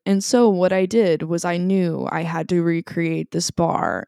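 dry, flat deadpan Nathan impression; deadpan, no emotion at all; monotone voice. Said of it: "that's how he talks".

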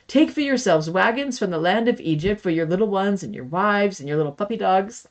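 teasing slip into a joke, distracted by the dog; playful ad-lib. Real, not acted. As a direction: slide in a cheeky joke mid-verse. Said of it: "Dela, my doggy".

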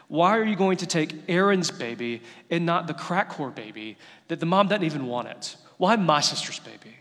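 retold angry prayer. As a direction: demand answers from God, indignant but short of screaming. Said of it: "I am screaming at God. I am so angry".

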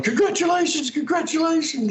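high, gushing congratulations; excited congratulations. Retold or imitated. Agent ringing the actor, excitedly high. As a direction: sing it out down the phone. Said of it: "Anne's rang me going".

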